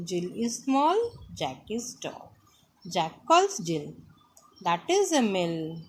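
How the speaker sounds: sing-song lesson reading, pitch rising and falling; reading to children. Acted. Teacher reads the chapter to the class, sing-song. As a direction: read it out line by line, swinging the tune.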